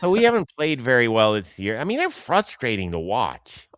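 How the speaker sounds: hammed-up greeting into light Boston accent. Shown as a demonstration. Host mimics a friend on the team's season, Boston accent. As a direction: imitate a Boston fan's accent. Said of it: "can you do a Boston accent".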